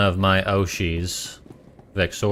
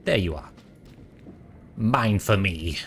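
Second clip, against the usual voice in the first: whisper; 4 dB quieter than usual. Acted. Game character whisper.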